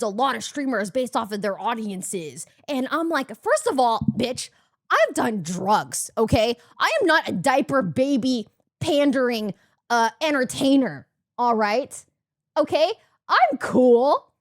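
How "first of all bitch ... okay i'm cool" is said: indignant comeback. Retold or imitated. Indignant comeback to baby insult.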